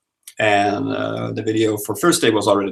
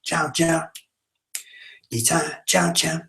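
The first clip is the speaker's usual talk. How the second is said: high squeaky Ewok chatter; 7 semitones higher, 4 dB quieter, slower than usual. Retold or imitated. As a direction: chirp like a little Ewok. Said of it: "The Ewok dance".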